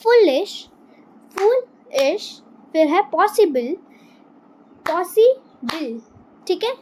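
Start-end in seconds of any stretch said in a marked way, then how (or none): 1.4-2.4 फुलिश stretched slowly into two beats; slow syllable demo. Shown as a demonstration. Teacher to pupils, slowly clapping syllables. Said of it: "teacher repeats slowly". 4.9-6.0 पॉसिबल stretched slowly into beats; slow syllable demo. Shown as a demonstration. Teacher to pupils, slowly clapping syllables. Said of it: "teacher repeats slowly".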